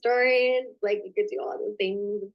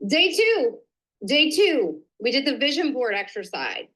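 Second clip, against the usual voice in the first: upbeat announcement; 4 semitones higher than usual. Real, not acted. Announcing next day's topic.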